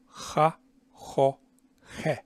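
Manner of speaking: Ha, ho with the mouth wide open and rough air pushed over a tongue drawn back. Shown as a demonstration. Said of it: "opening my mouth like I'm astonished".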